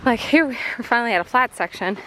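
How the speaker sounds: panting after a steep climb; breathless from the hike; out of breath. Real, not acted. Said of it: "Hear me gasping for breath".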